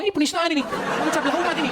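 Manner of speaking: a laughing parody of an offended believer; mocking accuser. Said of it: "kau langsung ngomong". (tiruan mengejek, lebih tinggi sambil tertawa)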